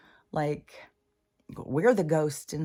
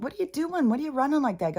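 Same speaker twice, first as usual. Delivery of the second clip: imitating grandson; 8 semitones higher, faster than usual. Grandson voiced in story.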